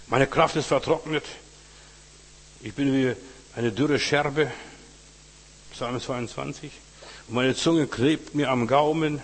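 a preacher voicing the psalmist's anguish; impassioned lament reading. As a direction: pour out the psalm like your own complaint.

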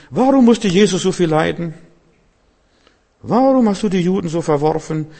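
mock-whine every why like a self-pitying believer; whiny complainer. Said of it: "Wenn du anfängst zu fragen". (weinerliches, hohes Jammern eines Zweiflers)

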